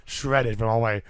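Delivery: raspy sick voice; hoarse voice. Real, not acted. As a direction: talk through a hoarse throat. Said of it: "my voice is shredded".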